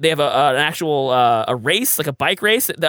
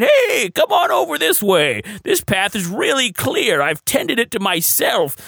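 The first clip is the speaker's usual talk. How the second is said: lightly voiced Bigfoot as a sly ranger; a hint of a lurking Bigfoot luring hikers; 4 semitones higher, slower than usual. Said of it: "That's my Bigfoot voice".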